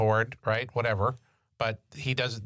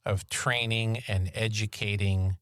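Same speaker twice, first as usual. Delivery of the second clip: dry, understated sarcasm; sarcastic; 2 semitones lower than usual. Real, not acted. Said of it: "I sense a little sarcasm there".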